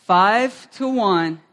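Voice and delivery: drawn out for the crowd. Shown as a demonstration. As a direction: drag "Five-to-one" out so they can join in. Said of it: "Everybody say that with me".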